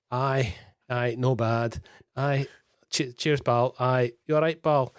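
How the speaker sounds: lightly put-on Scottish accent; Scottish street vernacular. Aussie guest quotes his acquired street talk, light Scottish accent. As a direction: imitate casual Scottish street greetings. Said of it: "throwing in the occasional".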